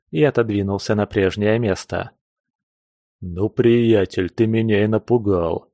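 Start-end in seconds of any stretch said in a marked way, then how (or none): 3.2-5.7 grumbling. Acted. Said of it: "заворчал Груз".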